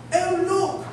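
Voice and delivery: lightly imitated nature-show host; mock TV presenter spotting a snake, drawn out; wildlife presenter impression. Homeless man imitating National Geographic presenter finding a snake, wildlife presenter impression. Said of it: "the National Geographic man".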